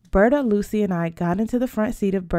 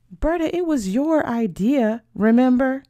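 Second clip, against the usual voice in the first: higher, emphatic comeback; pointed retort; 6 semitones higher, 3 dB louder than usual. Acted. Sophia reminds Berta whose idea it was, pointed retort. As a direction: throw the blame back, pitched up.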